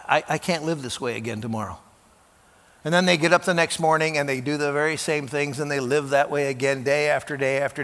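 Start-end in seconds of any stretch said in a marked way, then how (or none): 0.1-1.8 despairing late-night vow. Retold or imitated. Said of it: "who say to, late at night".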